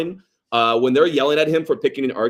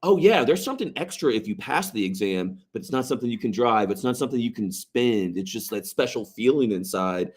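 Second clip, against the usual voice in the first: mock emotional speech; 4 dB quieter than usual. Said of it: "big emotional, like, speech".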